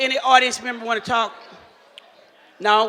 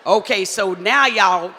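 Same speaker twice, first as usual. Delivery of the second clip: ordinary talk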